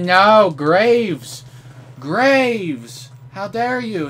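high loud outraged yell; angry yell. Real, not acted. Gamer yells at the enemy Graves who killed him again, loud and high. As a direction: howl the name in disbelief.

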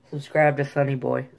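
light attempt at South Jersey speech; lightly imitated South Jersey accent. Shown as a demonstration. Vlogger contrasting Jersey accents on his plug, South Jersey. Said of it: "South Jersey".

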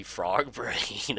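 drawn-out words cracking into a chuckle; amused, laughing mid-phrase; breaking into laughter. Real, not acted. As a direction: laugh through the last word. Amused by absurd food item.

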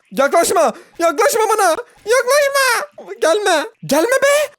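high panicked yelps, half laughing. Real, not acted. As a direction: squeal at the enemy to stay away. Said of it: "Bir tık korktum".

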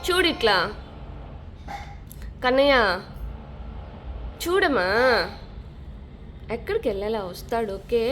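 hushed parental comfort; soothing. Real, not acted. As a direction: gently reassure an upset little one. Soothing a crying child about daddy.

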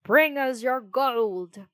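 slow, loud, drawn-out purr; purring threat. A narrator's reading. Second murderer demanding Pinocchio's gold, purring loudly. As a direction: demand it slowly like a menacing cat. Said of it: "purred the other".

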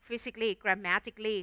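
"physically grammatically" as fi-sik-lee, gram-ma-tik-lee; correct pronunciation. Shown as a demonstration. Teacher listing examples for students, "physically grammatically" each ending in -sik-lee or -tik-lee. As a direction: silent "-al-" in both "physically" and "grammatically". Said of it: "ไอ้ตัว all เนี่ยไม่ออกเสียง".

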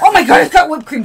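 sudden excited burst. Real, not acted. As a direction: gasp with delight. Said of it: "I got really excited".

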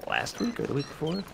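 talking while chewing food; words pushed around a mouthful; mouth full. Real, not acted. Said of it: "Did I eat one while I was talking?".

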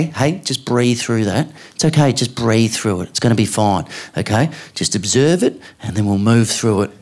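mindfulness coaching. Retold or imitated. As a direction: gently talk a hurt child through it. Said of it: "she does mindfulness with my kids".

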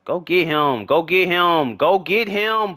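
urgent chant climbing in pitch; urging on. Real, not acted. Urging players on during play.

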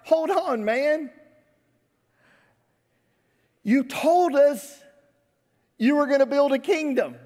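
high-pitched, loud objection as the disciple; indignant protest. Acted. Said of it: "He's like".

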